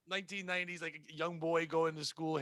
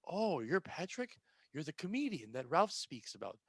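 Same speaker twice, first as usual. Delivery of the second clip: doting mother; 3 dB quieter than usual. Retold or imitated. Mother voiced doting on son.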